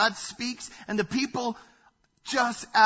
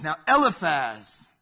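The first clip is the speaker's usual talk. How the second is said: God calling out Eliphaz; 3 semitones lower, 7 dB louder than usual. Acted. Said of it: "looks at Eliphaz and says".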